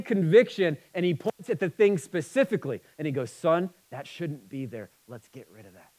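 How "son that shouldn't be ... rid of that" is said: woo him gently toward freedom; gentle loving father. Retold or imitated. God gently correcting his son, tender and hushed. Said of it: "With hope, with life, with a wooing to it".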